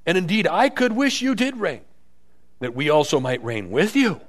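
sarcastic. Retold or imitated. Paul to the church that reigns without him, sarcastic. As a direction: wish it on them with sarcasm. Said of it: "You hear his little sarcasm?".

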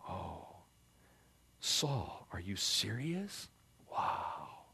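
soft, slow amazement; hushed wonder, barely believing it; a touch of stunned gratitude; awed disbelief. Retold or imitated. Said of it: "David looks at that and says".

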